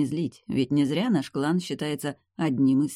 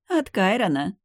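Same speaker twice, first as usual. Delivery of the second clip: happy beaming; 5 semitones higher, 4 dB louder than usual. A narrator's reading. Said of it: "счастливо просияла она".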